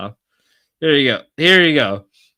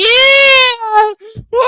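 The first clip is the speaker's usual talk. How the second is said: high, loud whooping yell; 8 dB louder than usual. Real, not acted. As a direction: scream it out in excitement. Drunk hype on stream.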